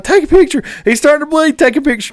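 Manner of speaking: high, excited urgency easing down; urgent call. Retold or imitated. Angler holding up the trout for his buddy, urgent call.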